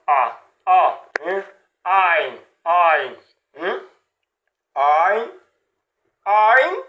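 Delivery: A and ein from the throat; throat sound A. Shown as a demonstration. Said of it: "tu mets la gorge".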